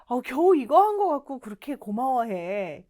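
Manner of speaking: casual, lilting brush-off; friendly acted downplaying; modest protest. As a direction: make light of the favour with mock protest. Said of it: "이런 느낌이에요".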